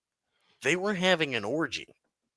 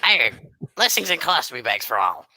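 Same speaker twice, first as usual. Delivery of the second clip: Midget Pirate Jesus voice; 4 dB louder than usual. Acted. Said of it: "you gotta get the pirate voice".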